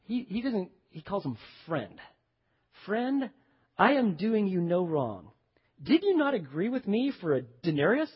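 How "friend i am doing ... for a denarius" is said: measured, understated patience; gracious. Acted. Landowner reminding worker of their agreement, gracious. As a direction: reason gently with an aggrieved worker. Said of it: "look at the graciousness of the tone".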